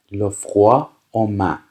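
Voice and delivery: very slow, careful French reading; slow, clear dictation. Shown as a demonstration. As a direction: read it out slowly for learners. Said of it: "teacher reads French slowly".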